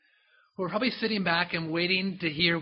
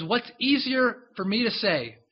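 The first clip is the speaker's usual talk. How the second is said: challenging question. Acted. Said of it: "And he goes".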